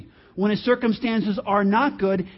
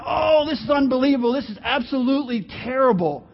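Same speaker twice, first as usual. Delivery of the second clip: hammed-up complaint, slightly raised; mock dismay; 3 semitones higher, faster than usual. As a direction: overreact as if all is lost. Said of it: "If things were down".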